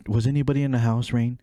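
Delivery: lightly imitated sweet questioning, quick; mock angelic mom. Mom asking youngest brother, mildly mock angelic. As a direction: coax the child with a touch of angel. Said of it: "her voice changed to, like, an angel".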